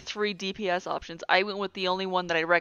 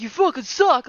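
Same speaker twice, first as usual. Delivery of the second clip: mock insult; 5 semitones higher, 6 dB louder than usual. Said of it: "He's like".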